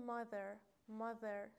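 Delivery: mother with a buzzing "th" in the middle; voiced "th" in mother. Shown as a demonstration. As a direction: model mother slowly, voicing the "th".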